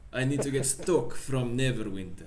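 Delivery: put-on Russian accent after a laugh. Pavlov waiting on stock from Neverwinter, Russian accent. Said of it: "That was pretty good".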